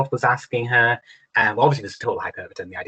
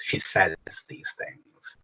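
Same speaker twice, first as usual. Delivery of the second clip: slow hushed read; 6 dB quieter, much slower than usual. Shown as a demonstration. Teacher reading the poem line slowly and quietly for students. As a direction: say it slowly and softly, almost breathless. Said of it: "takes the first Decet and switches it around".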